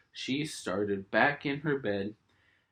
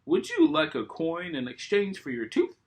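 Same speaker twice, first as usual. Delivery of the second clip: high, light fairy voice; sweet small fairy offering; high fairy voice, gentle; tooth fairy's voice; 8 semitones higher than usual. Acted.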